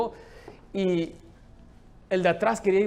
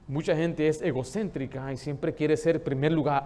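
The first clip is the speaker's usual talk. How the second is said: ordinary delivery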